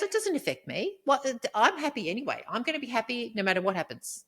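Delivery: mock unbothered. Woman quoting the man who claimed he was happy, mock unbothered. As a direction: airily brush it off, mimicking him. Retelling his breezy, unbothered reply.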